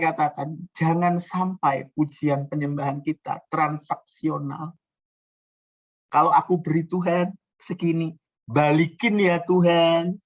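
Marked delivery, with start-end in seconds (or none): 6.1-10.2 mock demanding. Parodying transactional worshipper.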